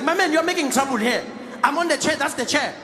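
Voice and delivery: high-pitched, insistent passenger voice; stubborn man brushing off a complaint; exasperated seat-taker. Acted. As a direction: argue the seat away, pitched well up.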